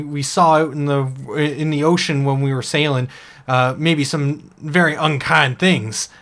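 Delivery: a small shellfish who insists he was once an orc; cursed oyster. Acted. GM voicing the cursed oyster to the elf, indignant.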